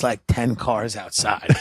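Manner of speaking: ordinary talk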